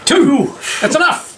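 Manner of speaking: excited cheer. Real, not acted. Cheering a dice roll.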